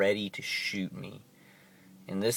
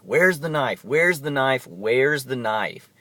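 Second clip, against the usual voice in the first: loud, urgent demand; police shouting; 4 semitones higher, 5 dB louder, slower than usual. Retold or imitated. Police at the door shouting at him. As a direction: bark it like a panicked cop. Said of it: "They were like, freaking out".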